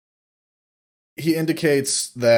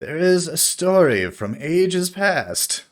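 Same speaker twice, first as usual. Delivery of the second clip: put-on grand old bard; 5 semitones higher than usual.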